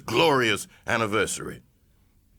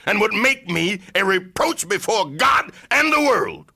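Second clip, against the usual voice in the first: louder, ringing peak of the sentence; indignant shout; 3 semitones higher, 4 dB louder than usual. Acted. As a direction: hurl the accusation across the hall. Orator's indignant climax.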